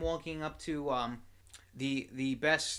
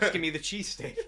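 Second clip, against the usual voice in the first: laughing; 3 semitones higher, 4 dB louder than usual. Retold or imitated. Santa demanding a cheesesteak, laughing.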